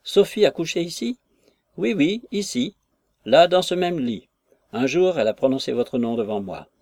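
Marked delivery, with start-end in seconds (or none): 0.0-1.2 higher, amazed question; astonished. A narrator's reading. Jones learning Sophie slept there, amazed. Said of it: "s'écria Jones". 1.8-4.3 higher, eager insistence; insistent landlady. A narrator's reading. Landlady teasing Jones about the bed, eager.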